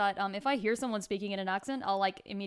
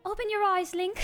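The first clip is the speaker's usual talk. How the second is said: high-pitched British princess call; put-on high British voice summoning the hero; Zelda; 10 semitones higher, 4 dB louder than usual. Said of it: "oh, wait, it's Zelda".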